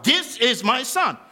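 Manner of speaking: loud, slow and high, declaring; booming God voice. Retold or imitated. Preacher booms God's declaration over Jesus. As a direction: proclaim it like God from heaven.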